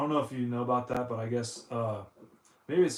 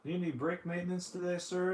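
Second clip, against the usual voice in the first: higher-pitched mock service attendant; 6 semitones higher than usual. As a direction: politely ask like a pretend attendant. Acts out brake mechanic addressing customer.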